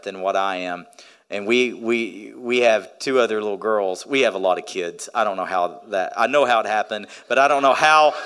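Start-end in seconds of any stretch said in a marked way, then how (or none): none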